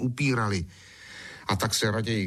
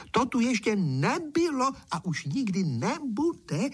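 rejoicing; 12 semitones higher, slower than usual. A narrator's reading. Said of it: "jásá předseda".

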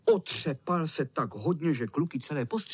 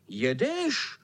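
1 mírný výkřik; 7 semitones higher than usual. Acted. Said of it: "vykřikli".

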